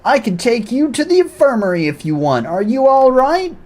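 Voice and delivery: mock-serious military pep talk; hammed-up drill commander. Commander lecturing nervous recruits, hammed up.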